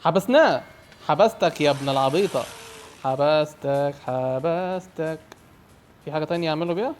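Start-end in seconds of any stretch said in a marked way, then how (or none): 0.0-0.6 loud, high victory cry; triumphant shout. Real, not acted. Player has just trapped clown. 1.1-5.2 loud crowing, stretched out at the end; gloating taunt. Real, not acted. Player gloats at trapped clown.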